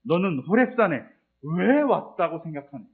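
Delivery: a hint of God's searching question, slow; God questioning Elijah. God asking Elijah why he came, slow and probing. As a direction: ask gently but pointedly, stretching 왜. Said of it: "이건 이렇게 해석될 수 있어요".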